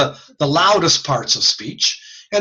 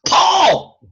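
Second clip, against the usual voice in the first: calling Paul much higher and louder across a street; yell; 14 semitones higher, 5 dB louder than usual. Shown as a demonstration. Teacher demonstrating yelling for Paul across the street. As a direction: belt Paul's name across the road. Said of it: "If I yell across the street".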